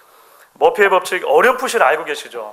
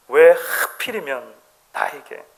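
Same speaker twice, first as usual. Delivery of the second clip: mild why-me grumble; 2 semitones lower than usual. Retold or imitated. Professor recalling his old negative complaints, mild grumble. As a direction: drawl it out with resignation. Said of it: "이렇게 얘기했는데".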